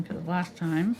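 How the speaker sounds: "last time" said around a brush held in the teeth; mouth stick. Real, not acted. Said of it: "I sound funny 'cause I'm holding my brush in my mouth".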